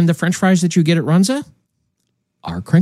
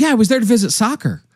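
put-on German girl; 6 semitones higher, faster than usual. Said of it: "she says".

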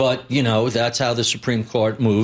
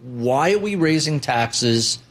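slow each word of Why are we raising taxes; deliberate, slow rhetorical question; slow, pointed question; 2 semitones lower, slower than usual. Real, not acted. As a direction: drag it out to make the point. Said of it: "pointed question".

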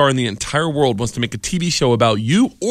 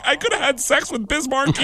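laughing disbelief; 10 semitones higher than usual. Real, not acted. Almost crying, laughing.

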